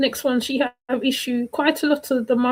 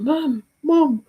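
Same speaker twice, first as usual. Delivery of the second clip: higher-pitched mock yell of a boy; imitated child's shout; 4 semitones higher than usual. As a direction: call out like a boy wanting mum, half-hearted. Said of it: "he's shouting".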